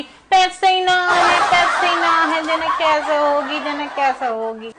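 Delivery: slow, whiny mimicry of a complaining sister-in-law; mocking sister-in-law. Aunt mocks the sister-in-law's phone excuses, whining slowly. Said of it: "phone पे झिक्के की जरूरी हो भाभी".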